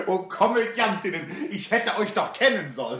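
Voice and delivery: laughing exclamation. Acted. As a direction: laugh at being fooled. Tellheim laughs at the trick.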